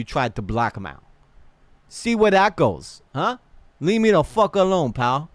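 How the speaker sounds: hammed-up New York accent. Streamer acting out his warning to leave him alone, New York accent. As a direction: warn them off like a put-on New Yorker. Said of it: "like, a, a New York accent".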